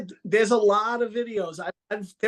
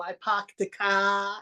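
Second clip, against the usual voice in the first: Boston accent; 3 dB quieter, slower than usual. Shown as a demonstration. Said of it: "in Boston is very".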